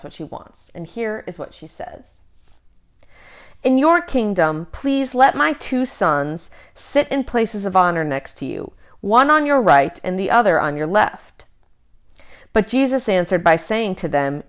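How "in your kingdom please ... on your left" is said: mother's plea. Acted. Mother's plea read aloud.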